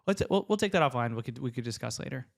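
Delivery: light and easygoing, not a threat; casual friendly read; friendly, casual take. Shown as a demonstration. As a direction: offer it breezily, just moving the chat on. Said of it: "that's exactly how I say it".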